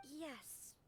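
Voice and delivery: breathy whispered yes. Acted. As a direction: barely say it, a whisper. Hesitant answer about her doubts.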